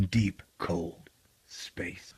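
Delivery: breathy whisper for "cold space"; spooky whisper. Acted. Whispering to listeners about the cold void. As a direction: hush it like a ghost story.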